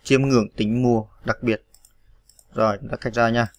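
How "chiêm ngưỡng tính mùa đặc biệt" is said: slow, even dictation of the phrase. Shown as a demonstration. Teacher reading slowly so students can type along. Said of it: "Rồi sẽ được".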